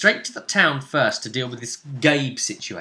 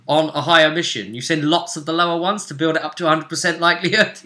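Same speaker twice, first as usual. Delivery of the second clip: excited gamer rant; faster than usual. Real, not acted. Excited game explanation, shouting.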